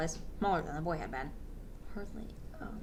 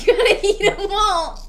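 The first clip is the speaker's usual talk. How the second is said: higher, slow, laughing anime hero line; 10 semitones higher, 6 dB louder, slower than usual. Pretend. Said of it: "it's Ash Ketchum".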